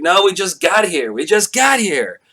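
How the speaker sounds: high, loud whiny protest; drunk protest. Retold or imitated. Drunk guy protests to friends at closing, high loud whine. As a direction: plead loudly like a drunk child. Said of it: "I'm like".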